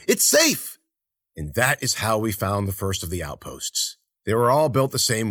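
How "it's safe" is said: high, loud reassuring shout; yelling. A narrator's reading. Jaguar yelled from within to the rest, high loud shout. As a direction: call out to those waiting outside. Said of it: "he yelled from within".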